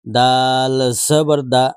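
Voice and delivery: slow, drawn-out letter-by-letter spelling; teacher spelling Arabic letters slowly; slow spelling drill. Shown as a demonstration. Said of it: "দুইটাকে মিলাইতে হবে।".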